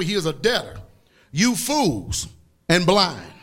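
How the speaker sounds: forceful preacher's scripture reading. Retold or imitated. Preacher reading woes on blind guides, stern declamation. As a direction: declaim it phrase by phrase, each ending falling.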